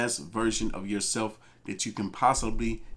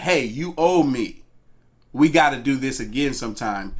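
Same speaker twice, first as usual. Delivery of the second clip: pushy demand; 5 dB louder than usual. Acted. Imagines pushy date demanding payback.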